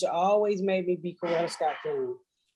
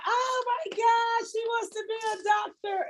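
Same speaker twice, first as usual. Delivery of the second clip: mock-amazed crowd of parents; gushing adults; 13 semitones higher, 3 dB quieter than usual. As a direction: coo over the kid like impressed parents. Everybody gushing over the girl.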